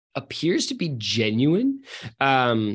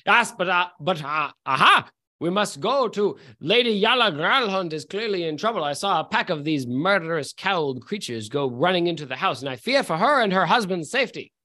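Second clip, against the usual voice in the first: put-on phony posh accent. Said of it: "with my phony baloney accent".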